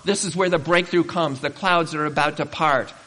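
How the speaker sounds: eager coaxing. Retold or imitated. God urging discouraged believers to look up, eager and loud. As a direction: call out like God coaxing a breakthrough. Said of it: "God at just that very point where he says".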